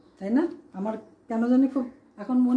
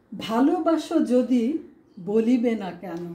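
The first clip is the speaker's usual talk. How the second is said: slow recitation. Shown as a demonstration. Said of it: "একটা example দিয়ে আমরা দেখি".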